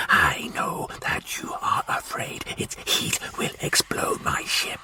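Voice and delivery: slow, hissed, menacing whisper; whispering Martian warlord. Acted. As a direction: breathe the demand like a cold threat. Martian threat.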